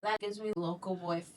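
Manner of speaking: hushed gossip in a whisper; whispered gossip between friends. Real, not acted. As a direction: lean in and whisper it.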